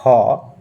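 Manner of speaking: ह voiced alone as a model sound; visarga sound demo. Shown as a demonstration. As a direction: give the teaching sound ह. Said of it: "इसका उच्चारण".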